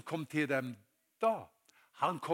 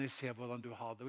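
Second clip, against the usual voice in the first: tag; 3 semitones lower, 7 dB quieter than usual. Acted. Jesus speaking to troubled listener.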